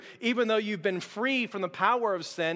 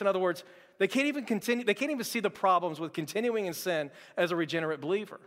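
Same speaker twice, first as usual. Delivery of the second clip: ordinary talk, nothing marked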